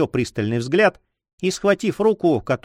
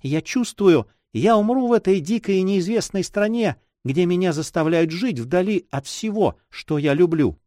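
lightly voiced, plaintive girl; a touch of foreboding in a girlish voice; despairing young girl; 4 semitones higher than usual. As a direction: lament it as a homesick girl.

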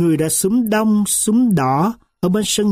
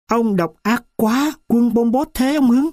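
indignant outcry; 5 semitones higher than usual. A narrator's reading. Narrator cries out against cruelty.

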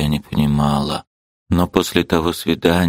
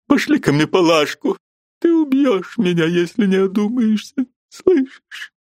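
put-on high, whining old mother's voice; fussy old lady; 13 semitones higher than usual. Mother scolding her daughter Liza, high and whining. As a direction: voice a complaining elderly lady. Марья Дмитриевна.

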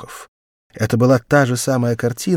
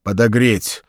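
calm; 6 dB louder than usual. A narrator's reading. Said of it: "спокойно спросил астрогатор".

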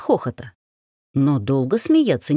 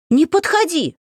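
high frightened shriek, louder; 12 semitones higher, 3 dB louder than usual. Acted. The heroine shrieks at the man again in feigned fear. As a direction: shriek at him to keep away. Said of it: "и я опять завизжала".

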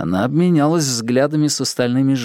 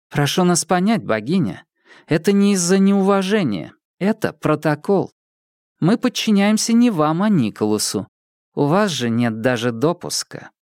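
woman character voice; 6 semitones higher than usual. Acted. Dylda refuses politely.

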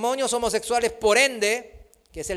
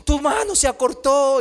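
louder, higher cry of a psalmist; crying out to God; 5 semitones higher, 5 dB louder than usual. Retold or imitated. Preacher reenacts his psalm prayer to the Lord, loud cry. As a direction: call out to the Lord in anguish. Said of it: "clamándole al Señor".

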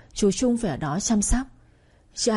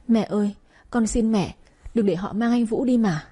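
begging mother through tears; tearful pleading; 2 semitones higher than usual. Acted. Daughter begs her mother to stop them, tearful. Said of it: "hai hàng nước mắt lăn dài van xin".

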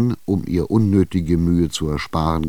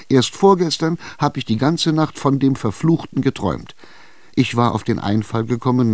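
higher, still shaken; frightened old woman; 4 semitones higher than usual. Acted. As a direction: tell the nightmare trembling with dread. Verängstigte Alte erzählt Traum. (verängstigte Alte, höher, noch erschüttert)

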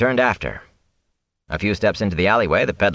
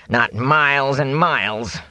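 slow, higher peddler voice; Fane, vehement; 6 semitones higher, slower than usual. Acted. Fane refuses to go near the Aes Sedai, vehemently. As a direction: draw out each word with distaste.

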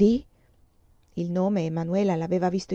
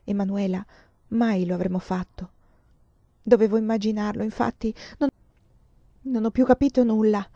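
saddened. Acted. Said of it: "Silvia disse rattristata".

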